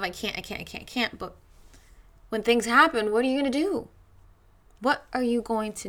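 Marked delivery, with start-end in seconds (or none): 0.0-1.2 softer, anxious repeated worry; fretful murmur. Retold or imitated. Voicing people's anxious fear of change, soft fretful murmur. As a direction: murmur the fear under your breath. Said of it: "there's a lot of".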